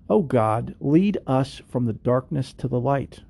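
slow, measured prayer with pauses between petitions; recited prayer. Acted. Host closing the show with a Hindu prayer, recited prayer. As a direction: pray it out phrase by phrase, unhurried.

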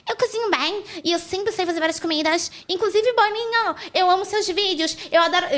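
imitating a contestant fawning over Boninho; sucking up. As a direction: gush at Boninho like a desperate contestant. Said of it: "vergonha, constrangimento total".

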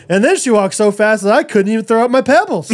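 put-on quoting a child while laughing through it; laughing quote. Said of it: "And then she's like".

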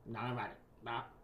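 put-on bubbly sorority girl; Valley Girl voice. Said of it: "I started doing Valley Girl voice".

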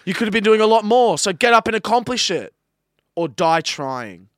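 loud, high push, slowing hard on the last words; rousing shouted pep talk. Acted. Host finishes motivational pep talk.

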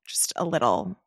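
speaking with numb lips; numb face. Real, not acted. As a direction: face still numb, words a bit slack. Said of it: "my face is numb".

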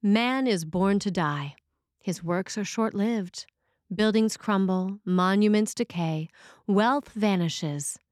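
grave, measured reading of the mountain plaque; solemn plaque recitation. Retold or imitated. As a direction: proclaim it like words carved in stone. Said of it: "with these Ash Wednesday appropriate words".

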